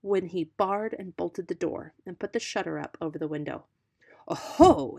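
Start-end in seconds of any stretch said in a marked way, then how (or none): 4.3-5.0 loud knowing "Oho"; lightly voiced sly fox; fox exclaiming. A narrator's reading. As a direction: exclaim it, scheming. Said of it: "exclaimed the fox to himself".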